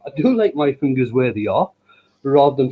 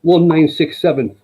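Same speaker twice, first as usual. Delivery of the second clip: slow, raised announcing call; comedian shouting out; 4 semitones higher, 5 dB louder than usual. Acted. Comedian shouting a joke's number from the stage, raised slow call. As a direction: call it out louder and higher, spacing each number. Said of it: "he shouts out".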